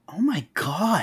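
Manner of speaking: horrified whisper; real hushed horror. Real, not acted. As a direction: breathe it out in dread. Horrified at the baby scene.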